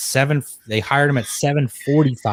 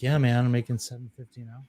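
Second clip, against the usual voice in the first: stoned coworker; 7 dB quieter than usual. Retold or imitated. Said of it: "like, all smoked out".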